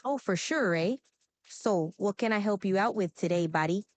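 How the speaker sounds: easy Canadian-accented chat. Shown as a demonstration. Assistant asked for a new accent, Canadian accent. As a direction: offer help like a Canadian. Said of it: "what about a Canadian accent".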